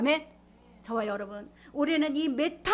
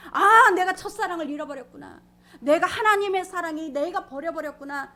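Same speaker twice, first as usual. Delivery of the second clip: loud, higher-pitched cry of realization; regretful realization; 5 semitones higher, 8 dB louder than usual. Retold or imitated. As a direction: exclaim as the loss dawns on you. Voices a believer's sudden regretful realization.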